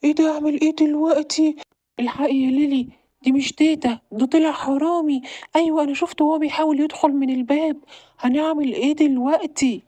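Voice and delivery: high, panicky whispers of alarm; alarmed boy, pitch jumping up in fright; scared. Acted. Boy sees a thief sneaking in, panicked. Boy spots burglar at night.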